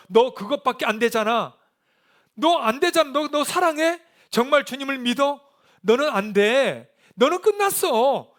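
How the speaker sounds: high, loud taunts, slowing at the end; accusing devil. Acted. Devil telling the believer they are finished, accusing. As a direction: needle them like the accuser, drawing out the final verdicts. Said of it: "자꾸 우리에게 이렇게 속삭입니다".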